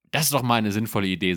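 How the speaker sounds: quick, bright-eyed approval; fast and eager; enthusiastic. Acted. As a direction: rush it out, thrilled by the idea. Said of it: "sagte Inga begeistert".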